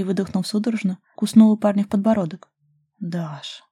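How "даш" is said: much softer, barely voiced murmur; murmured name. A narrator's reading. Ruslan murmuring Daria's name mid-kiss, soft. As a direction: breathe her name quietly. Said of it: "пробормотал Руслан".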